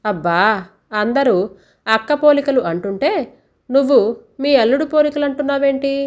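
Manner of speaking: a light jeer at her mother's claim; mocking. Daughter teasingly mocks her mother about the baby's looks. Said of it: "అని వెక్కిరిస్తూ అంది".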